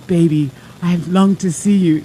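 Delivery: a hint of a longing lover back from a trip; playful imitation of a sexy voice. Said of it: "With that sexy voice going".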